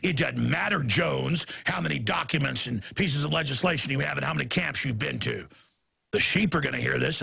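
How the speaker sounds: low, smug, taunting official voice; imitating a smug official gloating; mocking smug official. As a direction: taunt him like a smug bureaucrat. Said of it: "That's the message".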